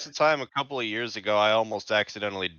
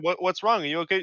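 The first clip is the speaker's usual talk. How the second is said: worried mom; 7 semitones higher, faster than usual. Retold or imitated. Imitating concerned mom.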